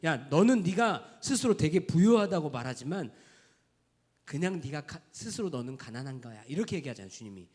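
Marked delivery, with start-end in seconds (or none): 0.0-6.4 stern rebuke. Retold or imitated. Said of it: "뭐라고 하시냐면".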